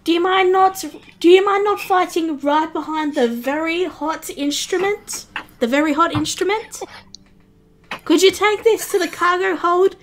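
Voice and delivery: a touch of a loud exasperated cook. Acted. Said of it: "the cook says".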